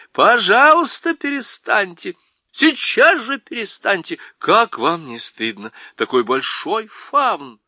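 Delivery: high, loud telling-off; scolding. Acted. Lucy scolding the Faun to stop crying. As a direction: scold him like a grown-up scolding a child.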